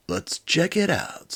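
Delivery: high, slow heroic robot. Acted. Max the robot decides.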